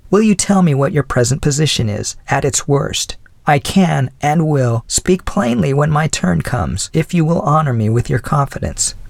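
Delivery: a hint of the old widow's voice; elderly lady voice. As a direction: speak as a kindly older woman. Mrs Callender asks.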